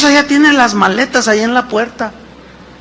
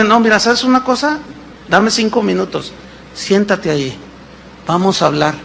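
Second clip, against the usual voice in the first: calm invitation; 5 dB quieter than usual. Acted. Better calm answer to wife.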